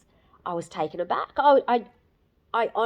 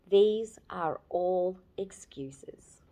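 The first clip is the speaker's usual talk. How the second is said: whispered verdict; slower than usual. Retold or imitated. John's blunt four-word verdict.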